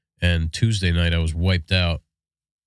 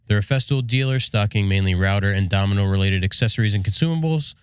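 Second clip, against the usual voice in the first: ad read; 3 semitones higher than usual. Acted. Host reads sponsor ad.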